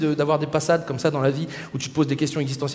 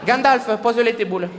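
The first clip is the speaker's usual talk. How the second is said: Bilbo with a hammed-up southern French accent, higher; 4 semitones higher, much slower than usual. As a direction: call out the elf and dwarf like a Marseillais. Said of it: "s'il avait eu l'accent du Sud". (accent du Sud exagéré, plus aigu)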